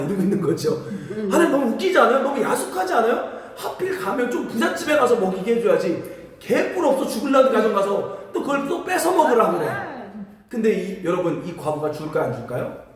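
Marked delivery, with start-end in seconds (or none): 1.3-9.7 laughing. Real, not acted. Laughing at God's odd plan.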